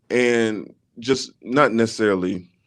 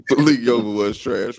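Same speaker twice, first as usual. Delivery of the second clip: laughing. Real, not acted. Laughing about bad accent.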